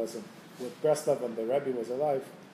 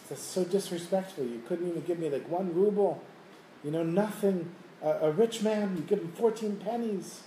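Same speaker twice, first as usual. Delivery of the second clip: acted-out affront, pitched up; indignant complaint; 4 semitones higher than usual. Once-rich man given a pittance by the Rebbe, mock indignant. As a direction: play an insulted man protesting, higher voice.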